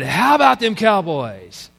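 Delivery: mock joyful victory cry, drawn to a falling end; Jimmy Johnson. Preacher quoting the coach at a press conference, spontaneous joy. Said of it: "in spontaneous joy, said".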